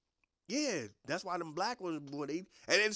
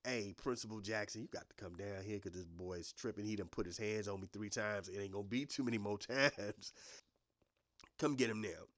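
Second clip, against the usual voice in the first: low, hushed urgent call; teacher calls principal about unruly boy; teacher on the phone; 6 semitones lower, 5 dB quieter than usual. Retold or imitated. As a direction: quietly beg the principal to come now. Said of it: "they be calling people".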